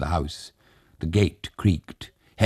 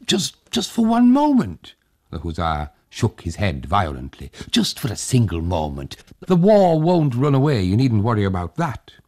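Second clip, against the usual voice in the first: pleading host; 4 semitones higher than usual. Acted.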